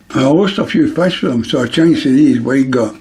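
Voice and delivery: talking around a needle held in the mouth. Real, not acted. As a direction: speak with a pin between your lips. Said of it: "Sorry the way I'm speaking".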